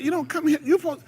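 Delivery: high, scolding teacher. Retold or imitated. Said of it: "They be like".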